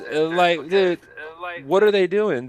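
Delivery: incredulous, fired-up outburst; excited. Real, not acted. Surprised by a big order.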